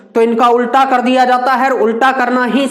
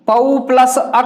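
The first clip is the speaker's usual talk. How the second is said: slow dictation; slower than usual. Shown as a demonstration. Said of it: "plus के बाद लिखते हैं".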